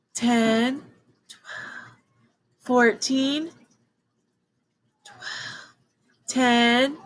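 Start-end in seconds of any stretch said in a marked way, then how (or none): 1.3-2.0 breathy whispered number. Shown as a demonstration. Teacher whispering every other number in a counting drill, whispered. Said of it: "Now we're gonna whisper every number". 5.0-5.8 breathy whispered number. Shown as a demonstration. Teacher whispering every other number in a counting drill, whispered. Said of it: "Now we're gonna whisper every number".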